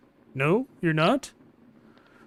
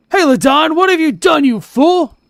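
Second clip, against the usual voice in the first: high, loud scolding; angry; 7 semitones higher, 6 dB louder than usual. Acted. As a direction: yell at the fool in shock. Boss scolds his innkeeper.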